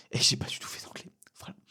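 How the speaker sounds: breathy unvoiced aside, dropping the voice; whispered regret. Real, not acted. Podcaster whispers his guilt about skipping English. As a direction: confess it under your breath to the listener.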